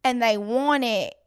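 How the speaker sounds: put-on light Southern country accent throughout. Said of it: "That was a really good country accent".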